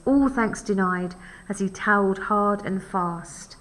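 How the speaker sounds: measured, expressive verse reading; poem reading. Acted. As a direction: read the poem aloud with lightly lifted key words. Reads the poem aloud.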